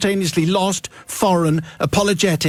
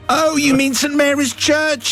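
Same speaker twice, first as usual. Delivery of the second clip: high, slow, over-clear helper; slow, careful enunciation; 10 semitones higher, slower than usual. Acted. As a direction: spell it out slowly for a foreigner. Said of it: "in a slow, loud, and carefully enunciated".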